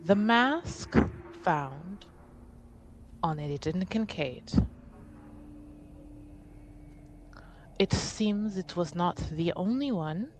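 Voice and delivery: measured, careful official request with long pauses; lightly voiced envoy, stately and deliberate; formal envoy. Envoy making an official request for House Montbéliard, formal and careful.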